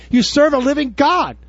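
ordinary talk

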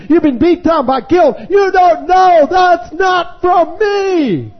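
high, loud fervent preaching, shouting; preaching at full force. Real, not acted. Revival preacher to his congregation, loud impassioned shouting. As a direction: drive it home to the congregation, full voice.

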